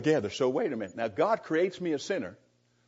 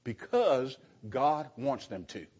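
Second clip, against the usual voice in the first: blurted; 3 dB quieter, slower than usual. Retold or imitated. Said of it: "the guy blurted out".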